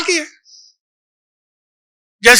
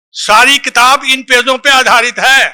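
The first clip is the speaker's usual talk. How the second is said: emphatic shout. Real, not acted. Stressing key pages to audience.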